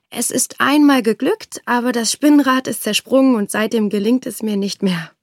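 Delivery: lauter, verlegen hastige Erklärung; Tochter mit Ausrede. Acted. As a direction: die Tochter rettet sich mit einer Ausrede. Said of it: "sagte die Tochter". (Tochter erklärt dem König, verlegen)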